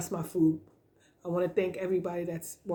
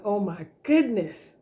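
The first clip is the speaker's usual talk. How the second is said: louder, delighted oh my goodness; excited exclamation; 4 dB louder than usual. Retold or imitated.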